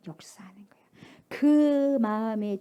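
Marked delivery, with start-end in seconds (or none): 0.1-0.8 whisper. Real, not acted. Preacher whispers the point.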